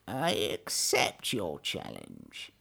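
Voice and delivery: low, slow and hushed; a calm quiet acceptance; said quietly. Acted. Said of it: "The Tortoise said quietly".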